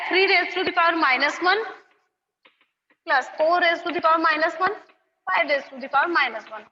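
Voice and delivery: slow, word by word, for copying; slow dictation. Shown as a demonstration. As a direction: spell it out slowly so they can write. Dictating part four. (धीरे-धीरे लिखवाते हुए)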